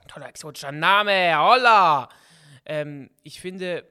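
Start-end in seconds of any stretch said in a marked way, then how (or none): 0.1-2.1 ironic exclamation. Real, not acted. Mock praise of a listener's name.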